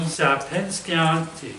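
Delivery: "Sapinskianti" slowly sounded out as sa-pen-SKYAN-tee; "Sapinskianti" mangled, drawn out syllable by syllable; butchered pronunciation. Real, not acted. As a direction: stumble slowly through "Sapinskianti" as an unfamiliar surname. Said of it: "I just butchered it".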